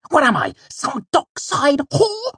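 high, loud, affronted outburst; Bast, angry. A narrator's reading. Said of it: "he hissed angrily".

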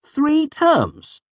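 high, loud startled question; surprised. A narrator's reading. Narrator reacts to the wager, surprised. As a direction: blurt it in surprise, pitch way up. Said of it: "I said, surprised".

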